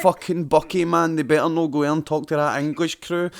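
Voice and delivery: a hammed-up worried controller; laughing through a mock panic; panicking mission control. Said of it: "every cunt in mission control's like".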